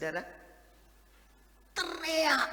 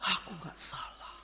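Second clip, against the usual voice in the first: inner voice; 3 semitones lower, 7 dB quieter than usual. Retold or imitated. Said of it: "dalam sini ini bergelora".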